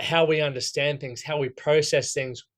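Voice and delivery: talking with food in mouth; mouth full. Real, not acted. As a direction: speak around a mouthful. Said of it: "Sorry, I got stuff in my mouth".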